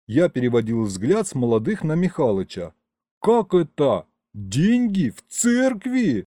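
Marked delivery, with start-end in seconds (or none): 3.2-6.2 high-pitched, stretched-out outraged question; indignant disbelief. Acted. Narrator learns of money taken in church, high and incredulous. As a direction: question it as if unthinkable.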